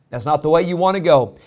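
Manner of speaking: rising, forceful pulpit delivery; preaching. Acted. Pastor warning his congregation, forceful preaching. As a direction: preach it out to the church.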